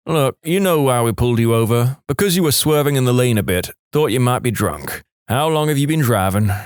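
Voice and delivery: lightly voiced older cop; a hint of an easygoing police officer. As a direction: play the cop levelling with a driver, lightly.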